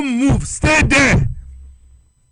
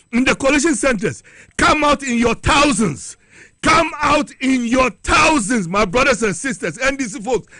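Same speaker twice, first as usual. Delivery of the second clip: rallying shout; 2 semitones higher than usual. Real, not acted. Caller rallying party supporters.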